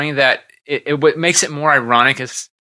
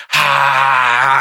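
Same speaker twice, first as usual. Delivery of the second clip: drawn-out mock "haa"; imitated slapping "ha!". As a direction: act out a yelp while smacking someone. Mimes a film slap scene.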